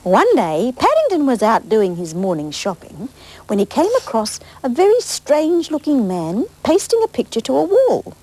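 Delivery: lively storybook reading; bright picture-book narration; reading to children. Acted. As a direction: read it to the little ones.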